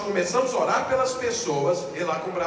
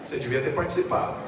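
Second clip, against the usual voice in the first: a lightly voiced gloating rebuke; mild mock smugness at the latecomer; smug told-you-so; 7 semitones lower, faster than usual. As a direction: rub it in a little, half laughing. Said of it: "sabe aquele gostinho assim de".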